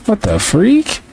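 sudden high squeak of disbelief; shocked outburst. Real, not acted. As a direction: react like the ref robbed you. Shocked at no steal call.

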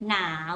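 หนาว dipping then rising; teacher's demo of rising-tone หนาว. Shown as a demonstration. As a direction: say หนาว with the tone going up. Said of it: "with rising tone".

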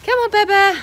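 high, loud call to the horse. Real, not acted. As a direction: call her in, bright and loud. Calling horse.

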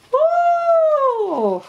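very high, loud whoop; long high-pitched woo sliding down. Real, not acted. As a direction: let out a piercing playful whoop. Playful whoop at her own craziness.

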